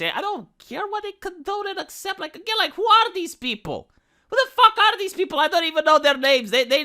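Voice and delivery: who do these people think they are, said with disbelief; incredulous outburst. Real, not acted. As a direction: pitch jumps up with a laugh of disbelief. Ranting at corporate statement.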